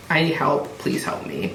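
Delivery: soft plea fading to an almost voiceless murmur; understated imitation of a desperate plea, trailing away; retold sobbing plea. Sobbing mother begs the therapist for help, retold softly. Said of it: "she's sobbing".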